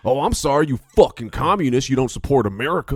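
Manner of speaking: loud, indignant redneck patriot; put-on American redneck accent. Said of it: "Please say it in that".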